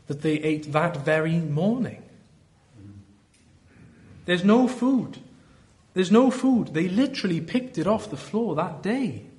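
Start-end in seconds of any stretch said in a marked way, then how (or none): 4.2-6.7 mock whining complaint. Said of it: "as if they've forgotten".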